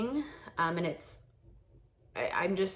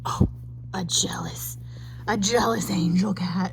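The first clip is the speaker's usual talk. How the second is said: whisper; 2 semitones higher, 8 dB louder than usual. Acted. Whispering to the cat.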